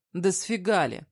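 fiancé looming over her, angry snap; angry retort. Acted.

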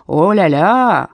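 slow, drawn-out о-ля-ля in rapture; dreamy delight. A narrator's reading. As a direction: savour о-ля-ля dreamily. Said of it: "с каким-то мечтательным восторгом".

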